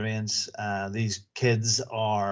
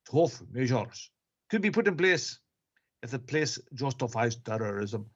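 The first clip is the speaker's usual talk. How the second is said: put-on Russian accent. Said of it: "That's more like South African".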